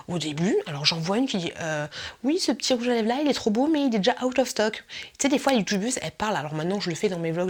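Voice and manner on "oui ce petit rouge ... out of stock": higher-pitched mock vlogger lapsing into American English; chatty French that swerves into an American accent; YouTuber switching to American. Imitating a YouTuber about a lipstick, American accent. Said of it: "et d'un coup, elle partit en américaine".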